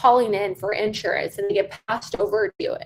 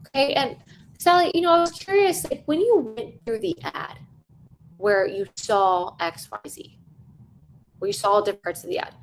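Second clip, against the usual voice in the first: curious sales question. Shown as a demonstration. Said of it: "I'm asking for contact".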